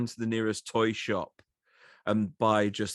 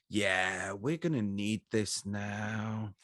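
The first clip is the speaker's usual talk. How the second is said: mock buyer; 2 semitones lower, 6 dB quieter, much slower than usual. Imagined buyers talk to lady.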